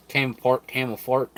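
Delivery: talking through a mouthful; chewing while speaking; mouth full. Real, not acted. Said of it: "talking with my mouth full".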